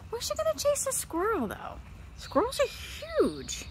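high-pitched disbelief; high, incredulous exclamation. Real, not acted. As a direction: squeal it in baffled amazement, dragging out the end. Amused disbelief at cat chasing squirrel.

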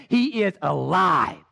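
a slow, joyful shout of victory; triumphant shout. Acted. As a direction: announce it in triumph. Resurrection triumph.

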